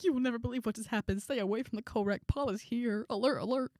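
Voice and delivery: high, hurried mock alarm; urgent warning. Student texting a friend to stay away, urgent warning.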